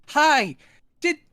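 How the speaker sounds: high, chatty put-on voice; oblivious chatterer. Cynthia asking Bruta about orange juice, oblivious high chatter. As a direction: chat away as if nothing is wrong.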